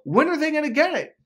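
high, loud, fed-up cry; exasperated outburst. Retold or imitated. Retelling his complaint to the coach, exasperated high and loud. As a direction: throw up your hands at the family. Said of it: "I go".

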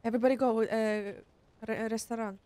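mock Italian accent. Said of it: "I can do the accent 'cause I've been to Rome".

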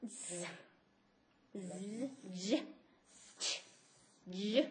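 English postalveolar sounds one at a time; teacher voicing the sounds; sound demo. Shown as a demonstration. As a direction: model each sound apart. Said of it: "Los sonidos en inglés son".

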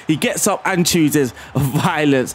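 slow, savouring it with a laugh; slow gleeful repeat with a laugh. Real, not acted. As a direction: drag it out and chuckle on violence. Repeats the goal line, savouring it.

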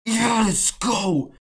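high ecstatic screaming; psych up yell. Real, not acted. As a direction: lose it over the win. Wins the knife.

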